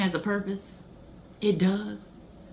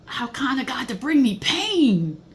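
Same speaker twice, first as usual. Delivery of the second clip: fervent; 4 semitones higher, 4 dB louder than usual. Real, not acted. Rereads verse, more intense.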